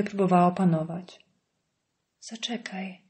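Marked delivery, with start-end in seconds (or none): 2.2-3.0 icy, breathy whisper stopping him; cold voice. A narrator's reading. Wife halting her leaving husband, cold whisper. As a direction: freeze him with one cold word. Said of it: "powiedziała zimnym głosem".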